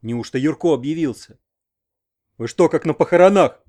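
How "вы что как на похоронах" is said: angry, much louder snarl; old man growling at the crying women; growled. A narrator's reading. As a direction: roar at the mourning women. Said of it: "прорычал он".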